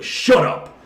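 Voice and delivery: sharp hissed command, high and forceful; retold hissed shut up. To the screaming old patroller, a sharp hissed shut up. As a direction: cut him off with a fierce hiss.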